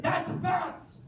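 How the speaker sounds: high-pitched excited exclamation; excited realisation. Retold or imitated. Storyteller re-enacts recognising a fax, high and excited. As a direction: cry out the sudden discovery, high.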